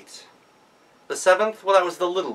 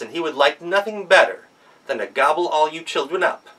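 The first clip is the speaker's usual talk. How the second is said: a lightly voiced mother goat, firm and careful; motherly warning, a touch higher; 3 semitones higher, 3 dB louder than usual. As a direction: warn the kids like a fussing mother. Mother goat warns her kids.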